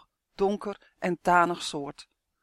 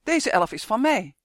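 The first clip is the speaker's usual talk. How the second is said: loud, raised claim of ownership; urgent yell; 4 semitones higher, 6 dB louder than usual. A narrator's reading. Justin grabs the elf's arm from the guards, loud protest. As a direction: insist loudly, stopping them. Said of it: "gilde Justin en hij greep Uf's arm".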